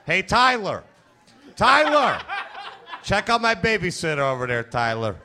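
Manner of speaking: a lightly voiced toddler calling his buddy; two-year-old impression. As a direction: play a cocky toddler bragging to a friend, light touch. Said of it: "That's my impression of a two-year-old".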